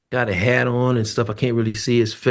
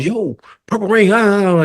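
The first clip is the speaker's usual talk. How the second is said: imitating Sheila; 9 semitones higher than usual. Sheila calling, mock singing tour.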